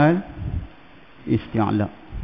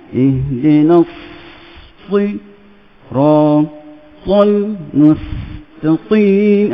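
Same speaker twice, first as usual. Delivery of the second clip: slow recitation; slower than usual. Shown as a demonstration. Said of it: "kita ajak tu".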